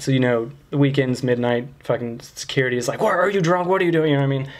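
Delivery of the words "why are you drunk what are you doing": mock accusing questions, a little higher; accusing guard. Gate security questioning late-night drivers, accusing. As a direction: imitate a suspicious gate guard firing accusations. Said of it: "They accused you of things".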